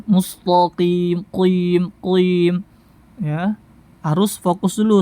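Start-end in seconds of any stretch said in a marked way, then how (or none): 0.1-2.7 MUSTAQIM with a heavy TO for TA; thickened ta. Shown as a demonstration. Teacher repeating the mistake, thickened ta. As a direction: let the qaf darken the TA in MUSTAQIM. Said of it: "nah, ini keliru".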